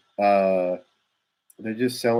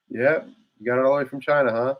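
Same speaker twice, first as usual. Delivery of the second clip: sarcastic jab; 2 semitones higher, faster than usual. Retold or imitated. Mocking the British over the tea.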